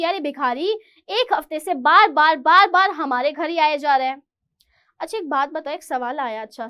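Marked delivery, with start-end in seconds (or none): 0.0-4.2 irritated complaint. Retold or imitated. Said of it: "गुस्सा चढ़ रहा था उसको".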